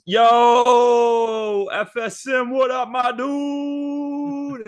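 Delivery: high, loud, far-off brash voice; Angel Reese voice. Retold or imitated. Angel Reese texting the spaghetti monster, high and brash. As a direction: yell it out like a cocky athlete. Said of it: "She texts and she goes".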